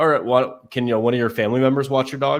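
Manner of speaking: ordinary talk, nothing marked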